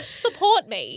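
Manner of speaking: mock plea. Mock complaint about fiancé's lack of support.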